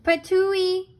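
a hammed-up patooey from a big old bear; Papa Bear spitting. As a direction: spit out the hot porridge as Papa Bear. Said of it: "cried big old Papa Bear".

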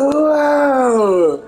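high, slow wail of disbelief; mock exasperation. Retelling her giving up after losing, mock exasperated. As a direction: drag out the words in mock defeat. Acts out beaten player giving up.

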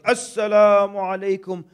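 loud, high hearty salaam at the door; loud greeting. Retold or imitated. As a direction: greet the host loudly and brightly.

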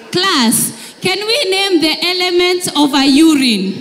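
prim teacher ignoring accident; oblivious teacher. Retold or imitated. Teacher carries on lesson.

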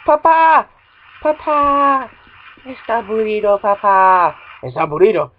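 put-on loud childish calls; kid calling papa. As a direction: play the bored kid. Voicing kid calling father.

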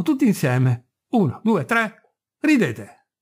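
mocking, furious taunting, slowed on the count; furious shriek. Mad mate taunting crew, furious mock shriek. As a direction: goad the crew to laugh, with spite. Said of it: "strillando furiosamente".

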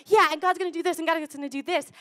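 put-on loud, high, eager kid voice; a boy bragging about what God will do; excited kid. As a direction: bounce with childlike certainty. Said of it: "I could just imagine him".

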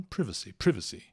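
privacy as "PRIV-a-si", said twice; short British I in privacy; British pronunciation. Retold or imitated. Teacher repeats how the British say it, short-I pronunciation. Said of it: "Eles falam".

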